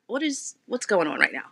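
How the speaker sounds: normal talking voice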